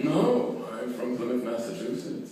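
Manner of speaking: lightly mimicked British-sounding preacher; imitated British-sounding accent. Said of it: "And he sounds British".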